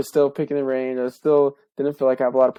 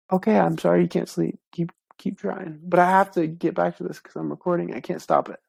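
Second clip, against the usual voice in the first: real gentle aside, pitched up; gently reassuring; 5 semitones higher than usual. Real, not acted. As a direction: kindly send him back to bed. Soothing a sleepless interrupter.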